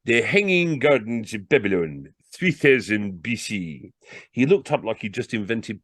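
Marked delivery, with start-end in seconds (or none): 0.0-3.9 salesman grandly reading from a page; reading aloud. Acted. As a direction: announce it slowly like an impressive fact. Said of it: "He read from the page".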